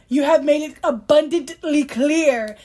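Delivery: slow, emphatic exasperation; exasperated. Real, not acted. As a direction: spell it out slowly, fed up. Fed up with the author's repetition.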